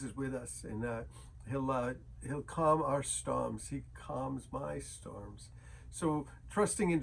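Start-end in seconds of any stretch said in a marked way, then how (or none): 1.5-5.5 reassuring. Real, not acted. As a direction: settle the listener's fears gently. Reassuring close after storm story.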